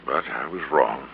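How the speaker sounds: letting the words fall away in defeat; quiet, deflated. Acted. Bascom admitting his failure to the detective, in a breathy near-whisper.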